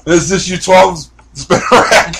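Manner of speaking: put-on slurred, loud drunk sign-off. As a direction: sound tipsy and sloppy. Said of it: "She sounded like a drunk".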